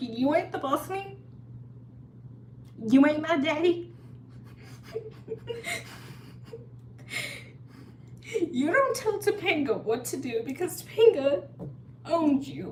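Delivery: put-on tearful, sobbing, high-pitched crying outburst. Retelling being scolded at a carousel, the speaker replays the answer given: retelling own crying. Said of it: "And I'm like crying".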